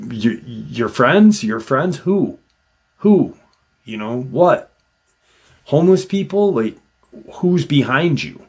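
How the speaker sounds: high, incredulous questions; baffled trooper. Retold or imitated. Trooper questioning the bloody man, high baffled disbelief. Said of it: "And the trooper's like".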